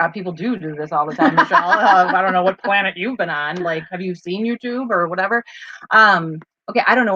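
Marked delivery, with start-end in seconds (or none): 0.0-5.4 mock commenter. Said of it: "someone's gonna comment and be like".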